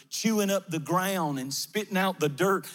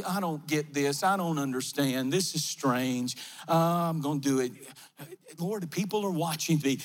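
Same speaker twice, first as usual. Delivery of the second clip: low, self-conscious grumbling to himself; puzzled and embarrassed, pitched well down; reluctant, baffled man; 5 semitones lower than usual. Acted. Man complaining to the Lord as people watch, low and reluctant. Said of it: "I could almost hear him in my mind".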